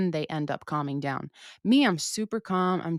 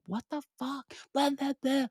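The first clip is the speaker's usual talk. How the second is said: high, exasperated imitation of herself; hammed-up irritated driver; mock road rage; 9 semitones higher, 4 dB quieter than usual. Ranting at slow drivers.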